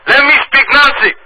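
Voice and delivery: put-on high, loud Dominican accent shouting in broken English. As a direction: yell furiously in a Dominican accent. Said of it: "I'll be talking in broken English".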